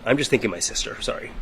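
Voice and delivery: quiet, halting, close to crying; fighting tears between long pauses; holding back tears. Real, not acted. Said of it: "this is hard for me".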